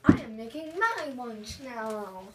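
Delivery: flat, even robot voice. Real, not acted. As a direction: speak like a machine. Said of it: "That sounded like a robot".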